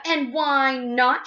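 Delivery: high, very drawn-out challenge; shrieking. A narrator's reading. Missus Gloop demands Wonka's reason, shrieking. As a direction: stretch each word into a shriek. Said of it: "shrieked Missus Gloop".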